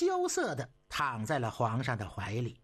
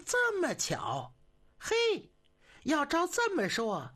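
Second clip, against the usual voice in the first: much higher, delighted exclamation; amazed; 11 semitones higher than usual. A narrator's reading. Emperor amazed by the matching toy train, delighted. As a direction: let the surprise burst out.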